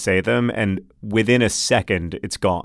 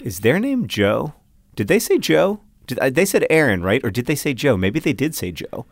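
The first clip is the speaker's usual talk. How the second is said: doubting inner voice; 3 semitones higher than usual. Acted. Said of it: "I'll be thinking".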